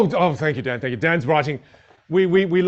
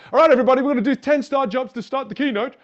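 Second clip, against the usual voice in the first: louder and higher, hammed-up stage opener; mock keynote announcer; 9 semitones higher, 4 dB louder than usual. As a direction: pretend to pump up the crowd, half-joking. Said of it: "otherwise you're like".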